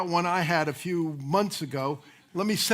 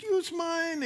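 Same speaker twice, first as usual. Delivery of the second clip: put-on Cuban accent; 11 semitones higher than usual. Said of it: "a man comes up with a Cuban accent".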